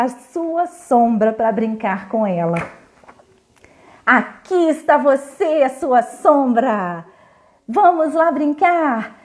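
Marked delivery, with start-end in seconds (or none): 4.0-9.2 put-on a bright, cheerful little girl; happy exclaiming. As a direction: call out to her shadow happily. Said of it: "Ela exclamava toda contente".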